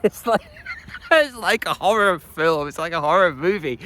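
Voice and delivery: high, laugh-tinged exclamation; laughing in mock horror. Real, not acted. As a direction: burst out laughing, pitch jumping up. Laughing at painful exercise videos.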